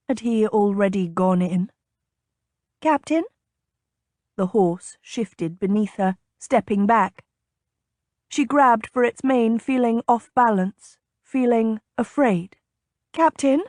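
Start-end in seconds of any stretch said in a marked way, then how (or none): 2.8-3.2 anxious call. A narrator's reading. Blind lady calling, afraid. 13.1-13.6 higher, worried call into the dark; calling out for someone unseen; anxious call. A narrator's reading. Lady alone on the horse calling for the captain, afraid.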